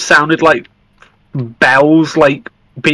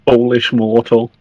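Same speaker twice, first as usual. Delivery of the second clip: Alucard impression; 4 semitones lower than usual. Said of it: "fucking quoting Alucard from".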